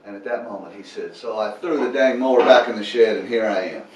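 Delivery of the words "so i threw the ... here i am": louder, grudging shrug of a line; begrudging. Retold or imitated. Volunteer telling the pastor he showed up anyway, mildly begrudging. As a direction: admit it with mild grudging resignation. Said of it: "he sounded a little begrudging".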